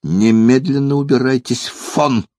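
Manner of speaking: indignant German lady raising her voice mildly. A narrator's reading. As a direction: scold him, stretching the last word. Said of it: "повысила она голос".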